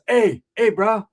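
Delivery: Samoan dad yelling hey, hey at the stall; retold yell. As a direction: bark it at the bathroom door. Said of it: "He yells".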